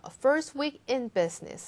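"first" stressed, falling after; weight on "first", then ease down. Shown as a demonstration. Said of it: "형용사 강조하신다는 거".

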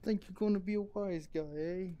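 put-on hammy mobster Italian accent. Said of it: "my worst Italian accent ever".

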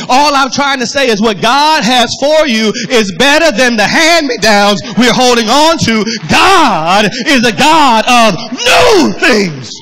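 booming pulpit proclamation; full-force preaching. Acted. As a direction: drive up to a drawn-out shouted climax. Preaching builds to a climax.

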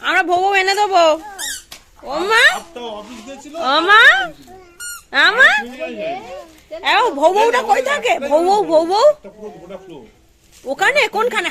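put-on high, loud cooing to a baby; mother playing with her baby, high and loud; baby talk. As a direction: coo at the baby to get a reaction.

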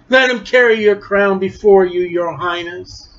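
lightly sneering fake courtesy; mocking. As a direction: taunt him as if serving royalty. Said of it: "Now they're mocking Jesus again".

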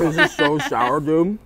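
laughing through sour candy; half laughing, half wincing, slowly. Real, not acted.

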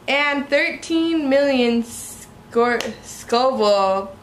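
halting, slow stumble; fumbling the words, slowed down; struggling to read. Real, not acted. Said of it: "I can't even read straight right now".

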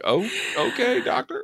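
high squeaky oh, okay, doctor; shrill mock disbelief; mock shocked squeak. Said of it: "I'm like".

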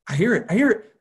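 high, loud excited cry; a kid who just heard the ticking; excited hearing it. Retold or imitated. Robbie finally hears the watch, high excited cry.

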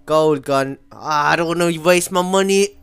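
ordinary talk, nothing marked

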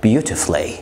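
beautifully as "beauti-flee"; beautifully with the u silent; correct pronunciation. Shown as a demonstration. (beautifully صح من غير الـ u)

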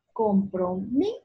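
"Compromiso" as comproMI, pause, so; stress on MI. Shown as a demonstration. Teacher showing the tonic, stressed MI in split "Compromiso". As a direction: lift MI in "Compromiso" and halt. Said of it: "La sílaba mi".

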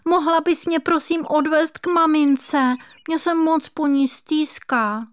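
high, pleading little kitten voice; a small kitten begging to go home to mum; homesick kitten. A narrator's reading. Kitten asks squirrel. (stýskající si kocourek, vysoký prosebný hlásek)

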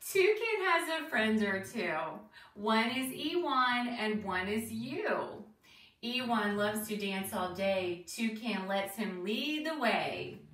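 lilting, deliberate rhyme reading; reading to children. Acted. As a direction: read a bouncy rhyme to young listeners, questions lifted at the end. Reads picture book to children.

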